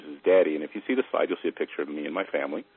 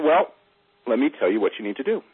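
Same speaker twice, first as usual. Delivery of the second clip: guru voice; 6 semitones higher, 3 dB louder than usual. Acted.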